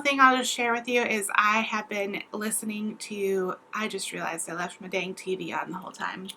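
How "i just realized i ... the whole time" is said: sudden hushed whisper aside. Real, not acted. Whispering an aside to viewers about the TV. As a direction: whisper it as if caught out.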